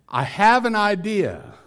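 high, singsong wife voice; wife sweetly proposing a scheme; coaxing wife. Acted. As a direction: pitch it up and coax your husband. Acted wife coaxing husband.

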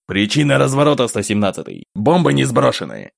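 demanding answer over the radio; sharp urgent radio call. Acted. (требовательный вызов по рации)

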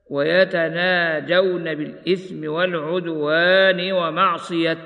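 slow, measured tartil chant; slow Quranic recitation. Acted. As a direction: recite it slowly with tajweed. Recites verse in tajweed style.

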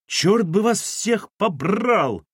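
high-pitched, drawn-out exasperated scream; yelled curse. Acted. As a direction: curse the household from another room. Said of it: "завопила откуда-то Кира".

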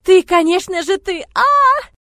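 very high, loud scream. A narrator's reading. Heroine screaming at Murat in hysteria. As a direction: scream until it breaks. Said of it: "кричу я".

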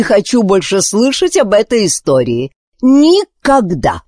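a furious queen laying down the law; indignant queen. Acted. Queen refusing her daughter's dream, outraged and commanding.

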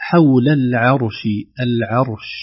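حول العرش with a light ع and a heavy ر; العرش slowly, thin ayn then heavy r; thin ayn, full r. Shown as a demonstration. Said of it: "ننتبه للراء وننتبه للعين".

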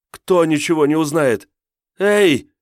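high, loud frantic demand; hysterical shouting. A narrator's reading. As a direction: yell it at an unresponsive captor. Hysterical woman yells at captor.

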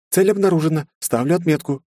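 very high, bright assistant voice reporting; an eager suit AI arriving; robot helper. Acted. Carol reports arrival to her master, very high and eager. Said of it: "произнесла Кэрол".

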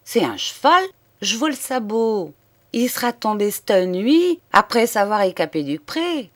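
high, loud excited exclamation; crying out. A narrator's reading. Old soldier calling down the well, loud and excited. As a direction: blurt it out, startled by the find. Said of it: "Sa peur s'écria".

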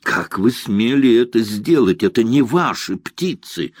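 a mild acted shout at an officer. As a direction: confront him hotly. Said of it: "закричал на Мандра Морозов".

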